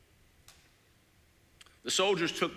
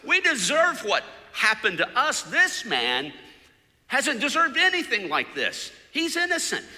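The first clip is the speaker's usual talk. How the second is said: high, loud rebuke, slowed on shut your mouth; high, loud defence from the other cross; angry yell; 10 semitones higher, 9 dB louder than usual. Retold or imitated. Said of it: "yelled at his other friend".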